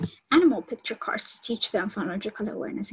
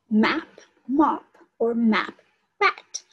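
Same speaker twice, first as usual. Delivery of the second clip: slow, stretched words, a little louder; saying out words; 4 dB louder, slower than usual. Shown as a demonstration. Lecturer replays the teacher, sounding words out slowly. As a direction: draw out each word like a teacher. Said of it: "You can hear she's saying out the words".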